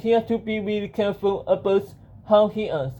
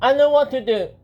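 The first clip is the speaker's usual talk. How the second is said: lightly voiced hero, higher pitch; Benjamin; 5 semitones higher, 4 dB louder, faster than usual. Hero to himself as monsters threaten, higher character voice. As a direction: pitch it up for an eager line of dialogue. Hero's line voiced in story.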